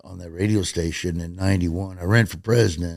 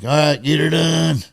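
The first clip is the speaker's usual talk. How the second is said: mild retold yell, raised pitch; yelling back; 7 semitones higher, 4 dB louder than usual. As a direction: imitate a guy calling back across a lot. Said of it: "the guy yells back".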